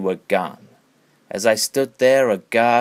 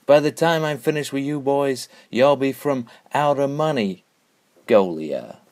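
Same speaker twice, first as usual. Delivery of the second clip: trash talk; 4 semitones higher than usual. Acted. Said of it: "trash talk your opponents".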